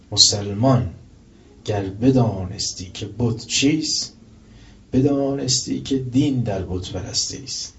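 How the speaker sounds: slow, measured verse reading; slow recited Persian verse; poem recitation. Acted. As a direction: recite the couplet slowly and deliberately. Recites Shabestari couplet.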